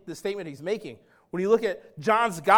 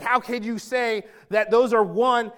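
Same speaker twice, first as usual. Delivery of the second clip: mild anger; 3 semitones higher, 5 dB louder, slower than usual. Retold or imitated. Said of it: "even more angry".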